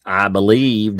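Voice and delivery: playfully put-on Southern drawl; fake Southern drawl. Joking about reading testimony aloud, fake Southern drawl. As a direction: lean into a mock Southern accent. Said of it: "I get to use my really fake Southern drawl?".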